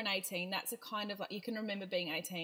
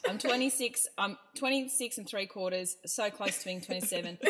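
playful demo; 3 dB louder than usual. Shown as a demonstration. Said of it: "So I really wish you said".

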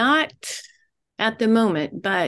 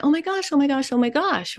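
mock excited women; 3 semitones higher than usual. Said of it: "they immediately walk toward each other".

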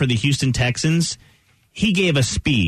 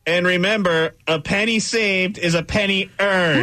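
hollow tube-muffled voice; through a tube; 4 semitones higher than usual. Pretend. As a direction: speak into a paper towel tube. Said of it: "I'm talking through a tube".

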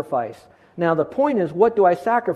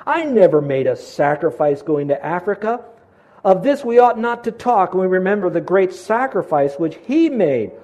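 solemn journal reading. Acted. Preacher to church, reading Livingstone's journal with conviction. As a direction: read the missionary's words with rising conviction.

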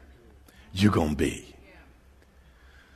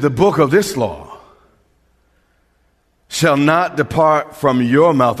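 louder, bold declaration; declared out loud; 3 semitones higher, 5 dB louder than usual. Shown as a demonstration. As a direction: proclaim it with conviction. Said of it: "Announce it, pronounce it".

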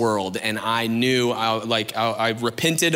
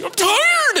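tired whine; 3 dB louder than usual. Retold or imitated. Whining tired parent quote.

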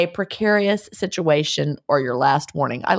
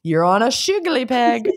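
relishing the phrase; 4 semitones higher than usual. Pretend. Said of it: "That's fun to say".

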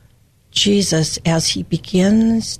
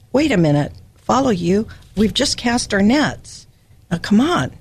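mock protest. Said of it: "I would say to Jesus".

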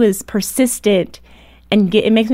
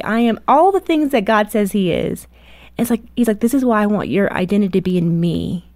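voicing God. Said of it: "God's like".

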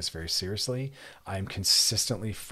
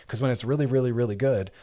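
upbeat emphasis; 3 semitones higher, 6 dB louder than usual. Shown as a demonstration. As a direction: lift up and louder on "really, really, really good". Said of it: "contrast good and bad".

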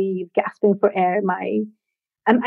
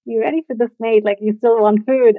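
lightly imitated Australian accent; sweet Aussie accent. Friend checks she still wants food, in a sweet Aussie accent. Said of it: "in her sweet Aussie accent".

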